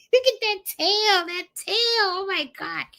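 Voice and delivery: high, laughing coo; laughing delight. Real, not acted. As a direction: laugh at the wagging tail. Laughing at the tail.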